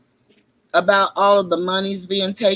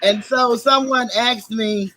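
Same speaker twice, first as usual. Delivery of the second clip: speaking without dentures in; toothless; 4 semitones higher than usual. Real, not acted. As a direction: talk with no teeth in. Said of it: "I came on tonight without my teeth".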